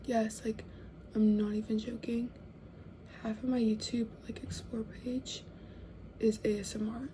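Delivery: soft confiding whisper; hushed retold confession. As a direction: whisper it like a secret in bed. Talking about ASMR in bed.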